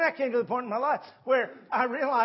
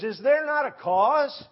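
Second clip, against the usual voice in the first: higher, much louder and slow; bold rallying cry; 5 semitones higher, 8 dB louder than usual. Retold or imitated. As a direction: proclaim it like a battle call. David rallies before fighting Goliath.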